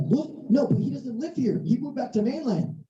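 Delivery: mock-baffled objection; incredulous protest. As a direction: protest in surprise to a clerk. Protesting to the bank clerk.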